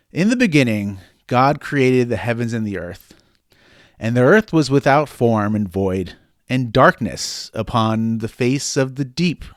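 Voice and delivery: loud, declamatory Bible reading; scripture reading. Acted. Host reading Genesis to co-host on request, declamatory scripture reading. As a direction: read Genesis out with weighty emphasis.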